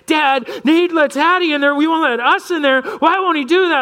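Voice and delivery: put-on high, whiny protest of little boys; angry kids complaining. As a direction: whine it up high like kids tattling. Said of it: "are angry and come to me".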